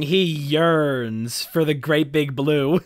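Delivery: mock-dramatic. Mock-dramatic line about the sea.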